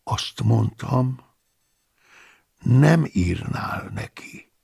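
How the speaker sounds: slow, soft, steady repetition; quiet calm. Acted. Paulus calmly repeats his claim to the abbot. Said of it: "halk, nyugodt hangon".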